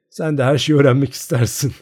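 teasing a nosy friend, lightly laughing. A narrator's reading. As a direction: brush her off with a chuckle. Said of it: "Maryanka gülerek".

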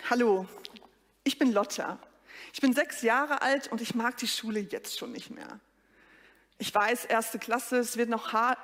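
lightly voiced little schoolgirl, a hint of sulky; six-year-old girl Lotta. A lightly voiced first-grader introduces herself to the congregation. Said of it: "schlüpfe ich in drei Rollen".

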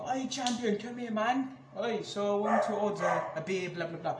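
a hint of a punter ordering a beer; calling a waiter. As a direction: casually wave the waiter over. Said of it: "just call them champions".

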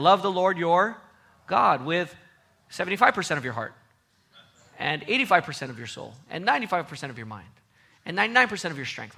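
the commandment rattled off lightly, with "seventy-five percent" read as a casual bargain; mock misquote. Shown as a demonstration. Preacher mocks half-hearted believers, in a light ironic recital. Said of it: "That's God's command? No".

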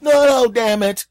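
loud, high, drawn-out protest; hammed-up furious objection; exasperated outburst. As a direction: cry out in comic outrage.

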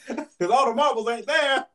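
loud, high, slow, laughing through it; laughing tease. Real, not acted. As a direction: crack up while teasing. Teasing friend, cracking up.

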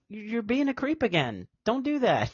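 high, mock-scolding woman's voice; quoting Sugar. Friend mocking Sugar scolding a creep, high falsetto. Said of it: "I'm like".

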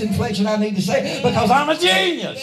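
driving pulpit cadence; building preaching. Real, not acted. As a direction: build phrase on phrase to a punchline.

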